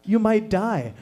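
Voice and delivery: lightly voiced little girl; sweet six-year-old. Six-year-old leaning over to little brother, lightly imitated sweetness. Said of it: "in the most beautiful way".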